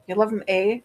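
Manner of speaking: playing up the Wisconsin accent, rising on the eh; mock Wisconsin accent. Shown as a demonstration. Streamer repeats her line to mock her own Wisconsin accent. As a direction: repeat it hamming up the Wisconsin sound. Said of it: "I sounded so Wisconsin there".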